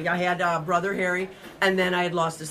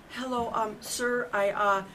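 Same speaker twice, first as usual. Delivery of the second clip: tentative, softer, halting delivery; retold timid opener, slowing at the end; hesitant phone introduction; 3 semitones higher, 4 dB quieter than usual. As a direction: feel your way nervously into a confession. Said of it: "Like that".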